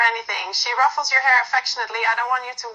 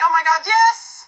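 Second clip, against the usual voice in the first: louder, slow gleeful burst through laughter; laughing; 5 semitones higher, 5 dB louder than usual. A narrator's reading. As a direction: crack up as you confess it. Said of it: "Fridolina bursts out laughing".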